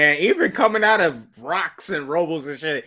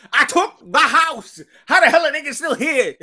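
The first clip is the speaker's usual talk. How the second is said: excited shout; 10 semitones higher, 3 dB louder than usual. Pretend. Repeated hyped boast.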